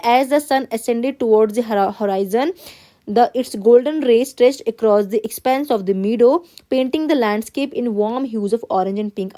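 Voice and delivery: slow, careful classroom read-aloud; teacher reading a text to the class. Acted. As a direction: read the passage word by word, x0.3 pace. Teacher reads passage aloud.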